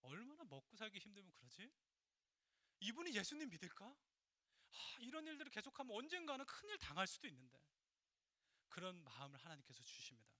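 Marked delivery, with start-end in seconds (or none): 0.0-7.6 retold pity. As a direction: wonder aloud in pity for someone. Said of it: "그분이 불쌍하게 생각되는 거예요". (안쓰러워하는 혼잣말)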